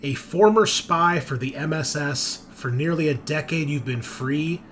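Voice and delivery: deliberate second-person story reading with pauses; dramatic read-aloud. Acted. Game master revealing a spy's secret agenda, dramatic read-aloud. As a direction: narrate a character briefing.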